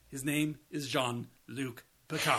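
a light mock French accent on the name. Mocking Picard's god-awful French accent, in a light mock French accent. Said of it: "despite his god-awful French accent".

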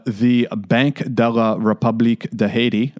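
self-consciously mangled French accent, lightly done; bad French accent. Shown as a demonstration. Host reading the Haitian bank's name aloud, in a self-mocking French accent. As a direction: read the Banque de la République de Haiti in a clumsy French accent. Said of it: "forgive my horrible French accent".

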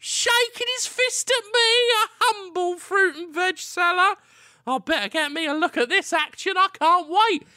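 squeaky-high innocent fruit seller; high vendor voice. Acted.

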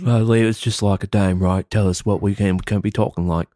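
playful fake British accent; mock British accent. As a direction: put on a British accent while insisting it's normal.

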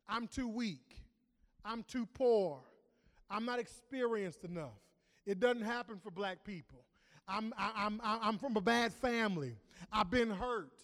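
preacher voicing people's fearful excuses, building. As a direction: build the list of excuses to a cry.

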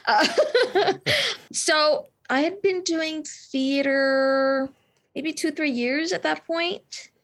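giggling through the words; flustered, laughing self-consciously; laughing nervously. Real, not acted. Flustered laughing reply to praise.

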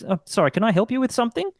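put-on high, quick young shop assistant; young shop worker. Young Bunnings worker turns round to a customer, high and quick. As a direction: offer help in a high, hurried young voice. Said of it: "young children that work there turn around and say".

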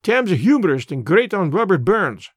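put-on an old border radical holding forth in broad Scots; lightly voiced Scots elder, earnest and proud; Scots labour man. Old Amos lectures Mister Brand on the war, lightly voiced Scots.

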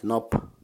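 "nop" as one short isolated syllable; pronunciation demo. Shown as a demonstration. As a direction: model "nop", closing on the p. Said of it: "you can just try pronouncing it".

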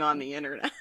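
whispered conspiratorial aside; whispered tease about putting it online. Real, not acted. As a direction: whisper it like a secret.

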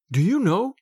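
a lifted, eager question; eager cry. A narrator's reading. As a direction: burst out with sudden feeling. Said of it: "he cried".

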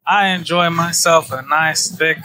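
put-on slow, light Texas accent. Confessing his taste in women to friends, light Texas accent. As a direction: draw it out with a hint of Texas. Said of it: "that was my accent ... my Texas accent came out".

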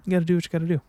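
high put-on resigned voice; mock resigned. Mock resignation to himself. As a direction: sigh it out like a shrug.

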